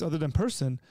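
ordinary delivery

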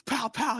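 high-pitched toy gun pops; mock gunshots. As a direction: imitate a cap gun firing. Imitating the toy gun firing.

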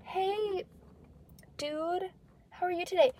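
high, drawn-out mock greeting; overly sweet greeting. Friend mimicking a casual hello to the guy, high mock-sweet. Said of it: "he'll be like".

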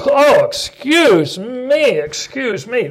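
high, slow, recovering from a cough; strained voice after soda fizz; fizzy soda tingle. Real, not acted. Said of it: "Doctor Pepper bubbles get up my nose".

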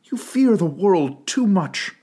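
slow and gentle; a slow, gentle reply to her fiancé. Acted. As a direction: ease it to him gently. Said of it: "she answered gently".

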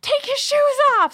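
high, loud mischievous call; high gleeful shoes order. Retold or imitated. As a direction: cousin calling out the prank.

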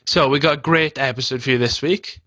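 upbeat and convinced. Shown as a demonstration. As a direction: sell it with energy. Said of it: "That's good".

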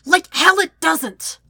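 loud, high, drawn-out fury; freezing, hateful retort. A narrator's reading. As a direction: spit it out slowly with hatred. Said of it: "come out in a freezing hiss".

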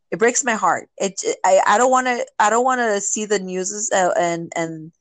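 upset, stammering over the words; heartbroken, stumbling to get it out; real distress, tripping over words; emotional. Real, not acted. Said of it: "this is a very emotional subject for you".

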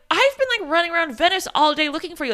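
high-pitched upset rush, mock-acted. Husband on the phone to his wife, very upset. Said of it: "very upset".

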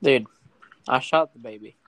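lightly southern-accented voice. Real, not acted. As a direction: say it with a touch of southern twang. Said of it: "That was the most southern accent".

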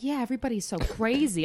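imitating a chatty New Jersey aide; Jersey accent. Quoting grandma's aide gossiping in a Jersey accent. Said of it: "I'm putting my real Jersey accent on for her".

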